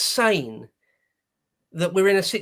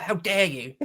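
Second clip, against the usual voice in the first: tossed-off, quieter mock outrage; mocking cliché; 4 dB quieter than usual. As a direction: say it as the tired catchphrase, half-joking. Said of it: "It's almost a joke".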